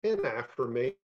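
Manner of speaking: slow, measured poetry reading voice; deliberate spoken-word delivery with long pauses; poem reading. Acted. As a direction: let each line land slowly, like a poet at a reading. Poet reads his poem aloud.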